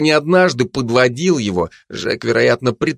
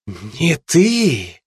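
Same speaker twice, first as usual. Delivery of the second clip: smirking; 5 semitones higher than usual. A narrator's reading. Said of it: "усмехнулась Жанна".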